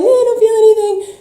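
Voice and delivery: mocking a numb woman who feels nothing; dismissive mock shrug. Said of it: "you're like".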